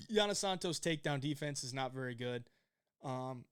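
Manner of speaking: talking through a burp; a burp catches the words. Real, not acted. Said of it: "excuse me, I'm burping".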